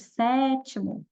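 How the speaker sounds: "sétimo" with a long, strong first syllable SÉ; stressed first syllable. Shown as a demonstration. Teacher showing students the strongest syllable, stretched SÉ in "sétimo". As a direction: lean slowly on the SÉ of "sétimo". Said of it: "ele é o mais forte".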